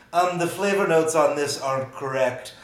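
a hint of a snobby hipster beer inspector. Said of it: "my hipster voice is the exact same as my nerdy historian voice".

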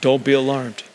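a lightly voiced shy angel; meek angel. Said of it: "I just don't think it was like".

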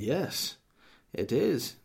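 teasing impression of a wife insisting; mocking wife's voice. Husband imitating his wife disagreeing, lightly mocking. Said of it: "that's the way she speaks".

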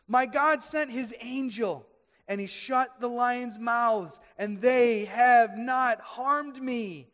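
loud, slow, measured proclamation; emphatic declaration. Acted. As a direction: declare each phrase slowly and firmly. Daniel's answer, declared.

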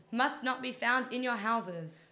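slow, loud, solemn scripture voice; dramatic reading. Pretend. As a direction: intone it like a grand decree. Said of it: "It's my dramatic reading".

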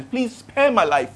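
slow, restrained retold plea; begging. Captain asking the prophet to spare him, mild begging. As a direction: plead slowly, only lightly acted. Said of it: "he begged".

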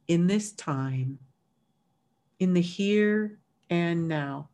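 unhurried meditation lead-in with long pauses; guided meditation. Real, not acted. Meditation leader settling a workshop group into breath, calm and unhurried. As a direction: ease them in gently, letting each phrase settle.

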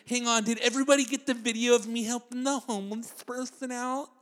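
mock attention seeker.

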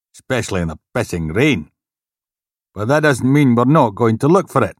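brusque police inspector briefing; stern inspector. Acted. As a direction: bark out the orders.

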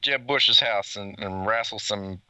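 put-on half-hearted Texan cowboy accent; American cowboy accent. The speaker plays a cowboy on request, light American accent. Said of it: "do the rest of the podcast with an American accent".

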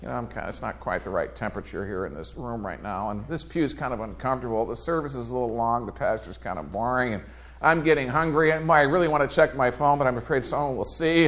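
soft, mumbled grumbling inner voice; mock bored churchgoer. Pastor mimicking a bored congregant's complaints, mock muttering. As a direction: play the restless pew-sitter muttering.

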